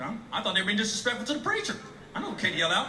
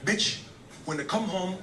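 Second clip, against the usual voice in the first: lightly put-on African accent; hammed-up African accent; terrible African accent; 5 dB quieter than usual. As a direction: play a husband with a bad African accent. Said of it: "This accent is terrible".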